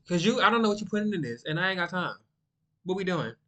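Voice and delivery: confrontational. Acted. Guest confronting a friend rolling out of sight, confrontational.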